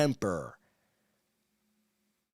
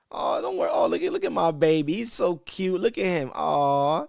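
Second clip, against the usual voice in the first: doting parent; 3 semitones higher than usual. Retold or imitated. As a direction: gush over the baby mockingly.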